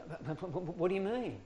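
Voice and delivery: mildly flustered stammer, rising pitch; flustered protest. Retold or imitated. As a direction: imitate a taken-aback caller sputtering. Flustered caller protests in retold exchange.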